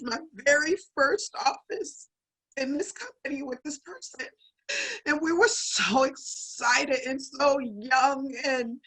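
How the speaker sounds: fighting tears, voice dropping toward a whisper; real tearful, halting tribute; choked up. Real, not acted. Emcee introducing her first office partner, choked up. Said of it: "I'm so sorry I'm crying like this".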